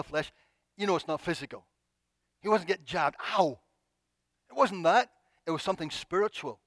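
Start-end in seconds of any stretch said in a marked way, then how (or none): 3.4-3.6 quick acted "ow"; mock yelp of pain. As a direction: yelp as if jabbed. Acting out being jabbed.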